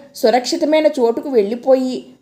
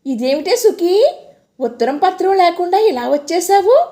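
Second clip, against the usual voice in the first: tearful happy surprise; 6 semitones higher, 3 dB louder than usual. Acted. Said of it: "ఏడుస్తున్న గొంతుతో ఆశ్చర్యంగా, ఆనందంగా".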